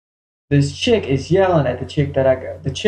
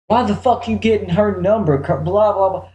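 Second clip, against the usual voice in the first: retold yelling; 5 semitones higher than usual. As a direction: imitate her angry tirade, trailing into blahs. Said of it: "She starts yelling at me".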